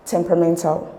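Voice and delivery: temperamental, lighter beat on tem, main on men; main stress on MEN. Shown as a demonstration. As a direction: lean most on men in temperamental. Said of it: "there is more stress on men".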